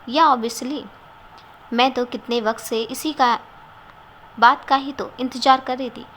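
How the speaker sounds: excited. Acted. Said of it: "Kinjal ने excited होकर कहा".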